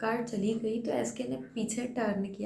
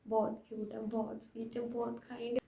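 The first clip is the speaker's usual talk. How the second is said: awed whisper; 3 semitones higher, 5 dB quieter than usual. Real, not acted. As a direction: breathe it out in reverence. Awed praise of the star.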